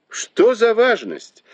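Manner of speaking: very high, drawn-out exclamation; high-pitched, stretched-out brush-off; dismissive exclamation. A narrator's reading. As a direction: exclaim slowly, pitch leaping right up. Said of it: "воскликнул Дзялянь".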